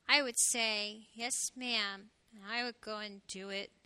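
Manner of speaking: low, subdued little hedgehog; quiet voice. A narrator's reading. Little hedgehog reluctantly agreeing to clean his room, quiet. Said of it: "in a quiet voice he said".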